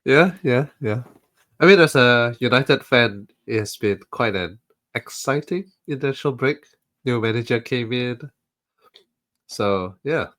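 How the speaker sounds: blocked nose from the flu; nasal voice. Real, not acted. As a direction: talk through a stuffy nose. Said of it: "based on your extremely nasal voice".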